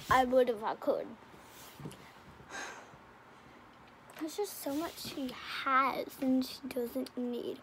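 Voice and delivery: talking with gum in mouth; words around chewing gum. Real, not acted. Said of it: "I have gum in my mouth".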